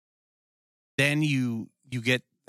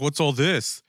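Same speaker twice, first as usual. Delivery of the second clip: higher, louder mocking of the cop; mock cop bark; 4 semitones higher, 3 dB louder, slower than usual. Mocking the rude cop who barged in. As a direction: sneer the cop's line back.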